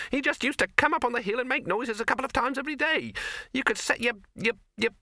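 high, squeaky little rabbit voice; a high, nervous talking rabbit. Acted. Rabbit explaining.

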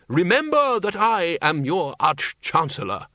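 snapping. A narrator's reading. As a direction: snap it out with authority. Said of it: "he snapped".

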